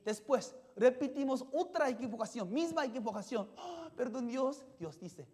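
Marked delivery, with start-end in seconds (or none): 3.6-4.7 pleading sinner. Retold or imitated. Sinner begging God's pardon.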